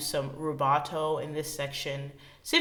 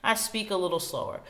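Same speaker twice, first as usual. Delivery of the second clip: slowing down; 3 dB quieter than usual. Shown as a demonstration. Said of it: "I've done essentially a rallentando".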